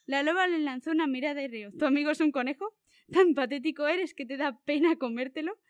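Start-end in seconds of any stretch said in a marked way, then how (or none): 1.8-5.6 a touch of mockery, teasing the fox; lightly scornful jab at a friend; understated taunting tone; mocking. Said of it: "con un tono burlón".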